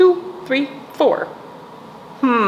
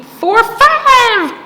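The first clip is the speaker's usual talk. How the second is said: high, loud climax to the count; bursting out on the last number; excited counting; 7 dB louder than usual. Acted. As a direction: count up to a thrilled finish.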